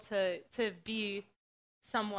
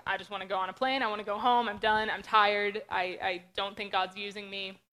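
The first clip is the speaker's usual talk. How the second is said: louder, worn-out plea to go home; exhausted venting; 6 dB louder than usual. Retold or imitated. Retelling how she felt at her lowest on outreach, loud and worn out. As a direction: blurt it out like you've hit your limit. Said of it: "I was like".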